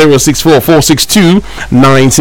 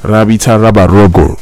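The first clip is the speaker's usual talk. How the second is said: lower-pitched imitation, not quite deep enough; imitating deep voice; 5 semitones lower than usual. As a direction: mimic the caller's low voice. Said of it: "love the way he was saying it".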